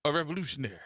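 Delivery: high, loud mock bird voice with clucks; clucking bird revolutionary. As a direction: crow it out like a chicken declaring revolution. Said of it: "this bird going".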